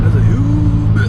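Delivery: loud, slow thrilled yell; excited shout. Real, not acted. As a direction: shout it out in awe. Thrilled passenger during hard pull.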